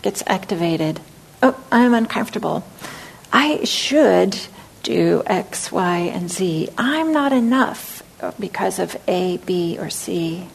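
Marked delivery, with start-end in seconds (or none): 1.4-10.5 self-critical voice. Retold or imitated. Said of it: "this self-critical voice".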